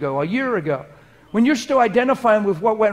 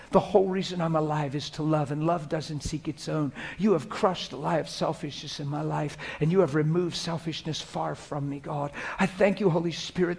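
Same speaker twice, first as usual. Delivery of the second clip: conversational, unbroken stream of thanks to God; softly spoken personal prayer; private prayer; 4 dB quieter than usual. Shown as a demonstration. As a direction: talk to God as to a father, alone. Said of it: "Here's how it sounds like when I'm alone".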